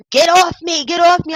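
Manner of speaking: mock panicked protest. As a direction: mimic him yelling to be let go. Retells man begging during fight.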